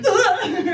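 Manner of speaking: high-pitched mock groan of arousal; acted aroused groan. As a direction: groan like an excited lover, hammed-up. Lover's aroused reaction, acted.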